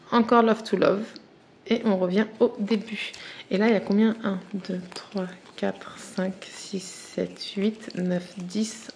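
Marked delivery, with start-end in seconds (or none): 4.2-8.9 murmurer le compte, presque chuchoté; compte à voix basse. Real, not acted. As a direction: compter pour soi, tout bas. Compte les cartes. (elle compte les cartes à mi-voix)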